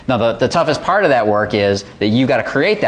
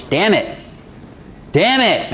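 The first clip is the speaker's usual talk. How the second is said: frustrated self-curse; 8 semitones higher, slower than usual. Acted. Voicing self-frustration in visualization.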